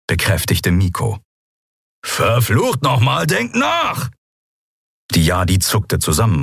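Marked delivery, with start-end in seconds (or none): 2.0-4.1 hoher, wütender Ausruf mit fallendem Ende; wütend anfahren. A narrator's reading. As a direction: fahr sie zornig an. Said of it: "als Kero sie anfuhr". (Kero fährt die anderen wütend an)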